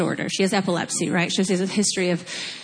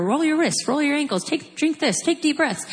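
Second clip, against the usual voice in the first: higher, a list of orders rattled off; rattling off orders; 6 semitones higher than usual. Retold or imitated. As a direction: reel off the instructions like a mock drill sergeant. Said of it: "that's a tall order".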